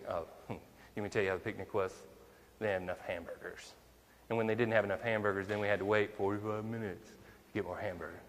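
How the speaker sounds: lightly mocking gripe about the food; mocking complaint. Churchgoer griping about the picnic, in a lightly mocking voice. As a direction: poke fun at the complainer, a touch snide. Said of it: "that mocking voice".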